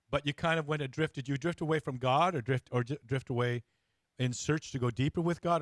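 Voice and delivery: ordinary delivery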